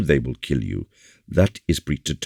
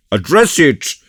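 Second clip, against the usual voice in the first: loud eager call, pitched up; cried out; 12 semitones higher, 7 dB louder than usual. Acted. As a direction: urge him on heartily. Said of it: "cried Porthos".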